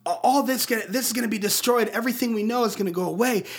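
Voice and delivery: lightly acted urgent plea; mildly pleading, speeding up towards the end; Miles Morales. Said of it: "he's trying to convince him to help him save Brooklyn".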